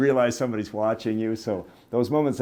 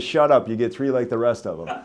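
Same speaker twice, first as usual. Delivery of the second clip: louder, mock-irritated retort; waitress scolding, acted; 2 semitones higher, 6 dB louder than usual. Waitress tells off German customer, loud mock annoyance. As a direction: cut the customer off, lightly hammed up.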